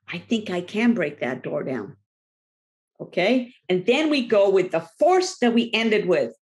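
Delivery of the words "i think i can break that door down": musing confidence. Acted. Rested, sizing up the door again.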